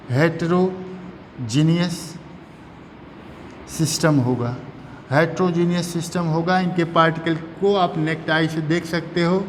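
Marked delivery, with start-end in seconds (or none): 0.1-4.5 slow, drawn-out term for note-taking; slow dictation. Real, not acted. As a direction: spell it out by ear, part by part. Teacher dictates key term slowly.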